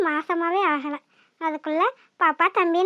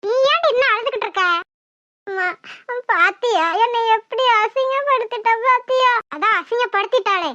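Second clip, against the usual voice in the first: angry; 2 semitones higher, 4 dB louder than usual. Acted. Mother and daughter scheming angrily.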